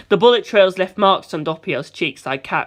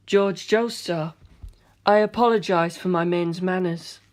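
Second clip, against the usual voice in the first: calm polite; 4 dB quieter than usual. Acted. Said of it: "he said".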